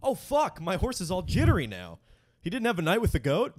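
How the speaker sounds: high, frantic jockey voice; panicked jockey. Pretend. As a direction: freak out about the horse. Plays jittery horse owner.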